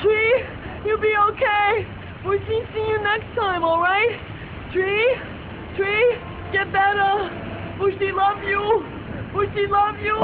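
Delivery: high, crying goodbye; tearful. Acted. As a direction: say goodbye through tears. Tearful farewell to damaged tree.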